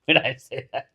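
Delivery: real amusement breaking into the words; trying to talk while giggling; laughing while talking. Real, not acted. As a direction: speak through lingering laughter. Still laughing at own joke.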